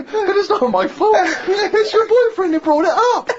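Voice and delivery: laughing indignation. Real, not acted. Telling friend about the humiliation, laughing indignantly. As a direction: rant through laughter.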